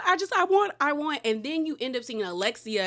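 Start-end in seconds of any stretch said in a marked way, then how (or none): 0.1-1.1 mock sobbing. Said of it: "Julia is now crying".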